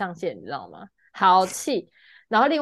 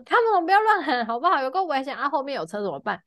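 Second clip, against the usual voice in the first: angry rant; 5 semitones higher than usual. Retold or imitated. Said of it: "在车上大发飙".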